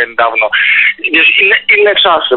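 ordinary delivery

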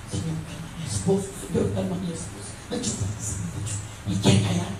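low, hushed pleading; private prayer. Acted. Wise wife asking God to calm her husband, hushed prayer. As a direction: pray under your breath, holding back. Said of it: "y ella va orando".

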